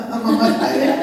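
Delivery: breathy laugh through the words; giggling punchline. Real, not acted. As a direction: laugh while naming your mother. Punchline about his own mother.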